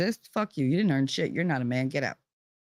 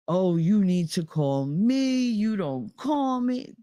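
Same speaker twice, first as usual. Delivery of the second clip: mock berating father; 3 semitones higher, slower than usual. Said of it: "his father started berating him".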